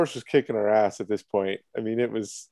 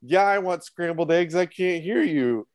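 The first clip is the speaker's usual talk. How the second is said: higher-pitched mock yell, slowing at the end; half-shouted, drawn-out reply in a raised pitch; retold shouting back; 6 semitones higher than usual. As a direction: imitate a lady calling back across a yard. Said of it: "the lady shouts back".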